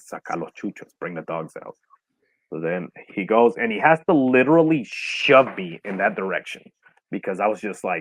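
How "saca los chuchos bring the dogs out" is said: hushed, much lower and very quiet. Retelling what the speaker's dad said to them, very quiet and hushed. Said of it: "he told me very quietly".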